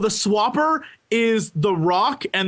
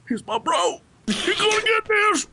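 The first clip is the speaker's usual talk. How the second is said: bro voice; 9 semitones higher than usual. Retold or imitated. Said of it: "his other brother goes".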